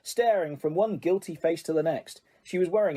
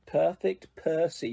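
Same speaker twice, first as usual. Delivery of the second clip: muttered; slower than usual. Acted. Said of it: "muttered Fred".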